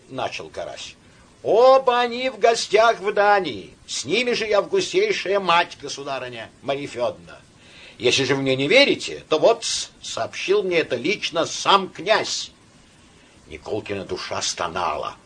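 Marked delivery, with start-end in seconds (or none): 1.4-12.5 put-on drunk officer. A narrator's reading. Officer continues his tale.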